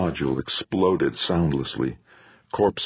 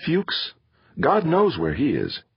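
higher-pitched irritated retort; annoyed; 8 semitones higher than usual. A narrator's reading. Comm center answering the attacker, annoyed. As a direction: sound put out and exasperated, voice raised in pitch. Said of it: "said annoyedly".

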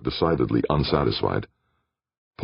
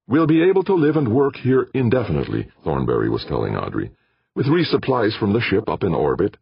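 eager scientist voice; 7 semitones higher than usual. Acted. Thornberry explains proudly.

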